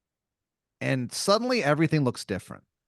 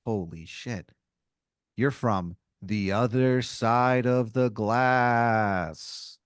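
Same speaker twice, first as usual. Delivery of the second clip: hushed awe; much slower than usual. Acted. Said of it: "he goes".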